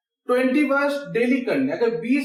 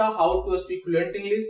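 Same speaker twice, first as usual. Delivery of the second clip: slow heading; 4 semitones lower, much slower than usual. Shown as a demonstration. Teacher slowly announcing the class topic to students. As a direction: say each word slowly. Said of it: "main topic यही था".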